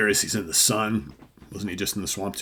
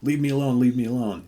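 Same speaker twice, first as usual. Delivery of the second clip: louder acted protest, starting high; mock panicked plea; 4 semitones higher, 6 dB louder than usual. Killer wards off the dead juror, mock panicked plea. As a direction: fend someone off in hammed-up alarm.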